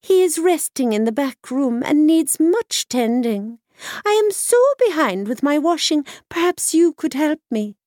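put-on high, sly old washerwoman voice; wily washerwoman. A narrator's reading. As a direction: wheedle it like a crafty old woman. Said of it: "said the wily washerwoman".

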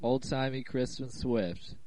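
stuffy sick voice with a cold; head cold voice. Real, not acted. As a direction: talk like you have a cold. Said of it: "that is why my voice sounds different".

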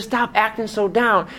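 high, slow, teasing widow; the widow's voice. Retold or imitated. Widow scolding the pastor for sounding sad, high and slow. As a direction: raise the voice up high for her, slow and chiding. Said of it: "She said".

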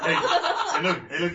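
excited loud call. Real, not acted. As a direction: shout to get attention. Calling out to screen.

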